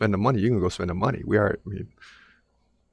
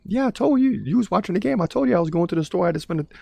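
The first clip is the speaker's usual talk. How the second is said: sassy wife voice; 10 semitones higher than usual. Retold or imitated. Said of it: "be like".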